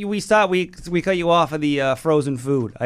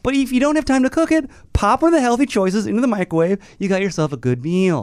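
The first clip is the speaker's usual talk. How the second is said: higher, lightly played sales pitch; mock ad executive; 4 semitones higher than usual. Pretend employee selling frozen meals, mock pitchman. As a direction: pitch it like a commercial, half in jest. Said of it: "I'm in their corporate offices".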